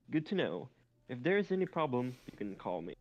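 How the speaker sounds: lightly bubbly, slightly lifted pitch; a touch of cheer, dropping at the end; cheerful and bubbly. Acted. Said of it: "responded with her cheer and bubbly demeanor".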